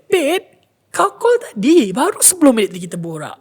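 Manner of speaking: high, loud and urgent; frightened warning. Retold or imitated. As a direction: warn her in alarm. Friend warns her, frightened.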